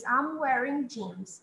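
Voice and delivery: slow, careful I'm wearing jeans; slow model sentence. Shown as a demonstration. Teacher models I'm wearing jeans slowly for students. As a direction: spell it out slowly for learners. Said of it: "É como eles falam".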